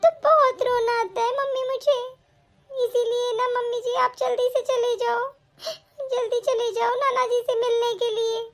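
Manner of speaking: tearful pleading with a catch in the voice; weeping as she urges mother-in-law to leave; crying. Acted. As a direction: beg through tears for her to go. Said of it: "अरे बहू, तू रो क्यों रही है".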